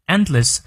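"endless" with the stress on its first syllable. Shown as a demonstration. Teacher models "endless" for learners, first syllable stressed. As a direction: hit the front of "endless". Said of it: "也是重音在前".

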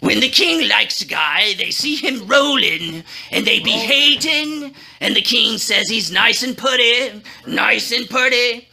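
grudging, forced through clenched teeth; gritted teeth. Acted. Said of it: "through gritted teeth".

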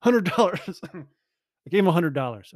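high laughing exclamation; incredulous, laughing outburst; laughing disbelief. Real, not acted. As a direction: laugh at your own foolishness.

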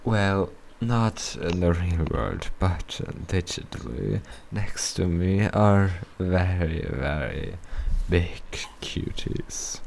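slow, low, breathy flirt; deep flirty voice. Shown as a demonstration. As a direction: purr it to the listeners. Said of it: "say something about that voice".

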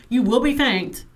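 firm, insistent gratitude; mildly aggressive sincerity; aggressive thanks. Real, not acted. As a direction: thank them as if giving an order. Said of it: "I know I sound really aggressive".

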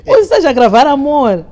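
high, loud retold question through laughter; laughing disbelief. Woman challenging the man over her contact name, laughing. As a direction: quote your own astonishment, laughing.

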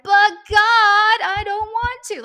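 put-on high, loud childish protest to God; whining child. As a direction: whine like a kid told to clean their room. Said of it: "Like my kids when they have to clean their room".

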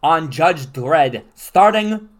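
quiz show host voice. Acted. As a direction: build the tension like a game show. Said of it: "host voice continues".

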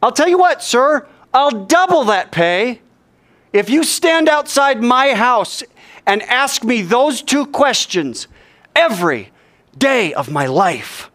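high, slow, projected offer; bold rabbi calling back. Acted. Rabbi bargains with the sentry, boldly calling up. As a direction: call it up to the wall, stretching words.

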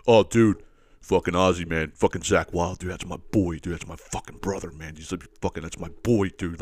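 lightly voiced stoner fan, adoring his idol; mild mock metal bro devotion; metalhead dude. Guy gushing about a guitarist.

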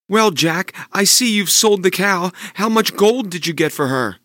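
a hopeful mother asking sweetly; mother's voice. Acted. Mother asking Jack about the cow, high and eager.

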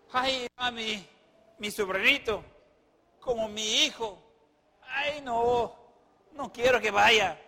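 hammed-up, halting plea; mock lament. Sara fretting over her nephew, mock lament. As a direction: lament in short, drawn-out pieces.

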